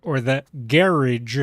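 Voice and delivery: slow, loud French "garage" with the stress on the end, ga-RAHZH; a drawn-out, showy French "garage". Shown as a demonstration. Showing off a French "garage" while picking a spot. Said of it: "See, I can be French".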